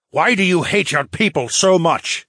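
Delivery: high, loud indignant question; demanding. A narrator's reading. Phineas confronts the merman, demanding. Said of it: "Phineas demanded".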